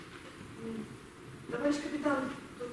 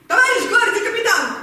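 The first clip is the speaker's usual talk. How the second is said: loud, formal call to a superior; bracing herself to address the captain out loud; 7 dB louder than usual. Acted. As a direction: snap it out like a soldier on parade. Rehearsing, finally calling out loud.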